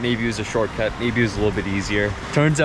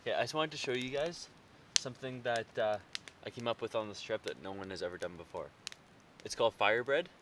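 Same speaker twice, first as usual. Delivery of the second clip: very quiet, hushed talk; 17 dB quieter than usual. Real, not acted. Quiet night demo at camp.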